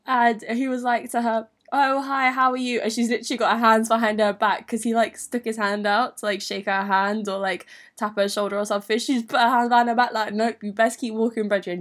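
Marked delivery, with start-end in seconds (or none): 1.7-2.8 higher, louder imitated hello; mock friendly greeting. Imitating the boy greeting best friend, mock friendly hello. 10.3-11.8 imitated matter-of-fact brush-off; brisk mock warning. Best friend refusing his handshake, brisk warning to boy.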